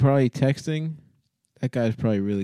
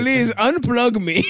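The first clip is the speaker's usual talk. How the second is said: computer voice; 11 semitones higher, 4 dB louder, slower than usual. Retold or imitated. Hawking voice, slow.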